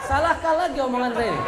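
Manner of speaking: high, loud, fast laughing mock protest; half-laughing, pretending to be wronged. Real, not acted. Preacher teasing the laughing mothers, laughing fast.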